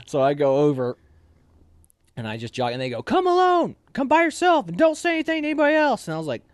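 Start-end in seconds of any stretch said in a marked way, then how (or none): 3.0-6.1 high, loud, barked command, fast at the end; angry sergeant shouting orders; drill sergeant order. Retold or imitated. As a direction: order the recruit to come over alone. Sergeant ordering him over.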